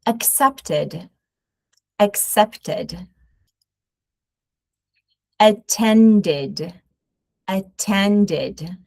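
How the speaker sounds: each word ending in a clear -id; extra -id syllable. Shown as a demonstration. Teacher modelling -ed verbs for students. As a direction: say accept-id, attend-id, decid-id. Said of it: "The second sound is".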